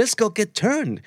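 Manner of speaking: high, eager "Let's go get turned"; excited invite. Retold or imitated. Friend urging a night out, high and eager. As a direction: pitch it up like a party call. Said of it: "quoting the friend's party invite".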